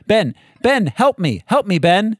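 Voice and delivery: flat, lifeless cry for help; badly acted damsel in distress; bad acting. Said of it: "That, that was her exact reading".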